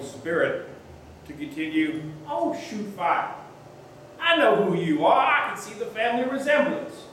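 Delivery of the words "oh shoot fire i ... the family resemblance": preacher's warm revelation. Retold or imitated.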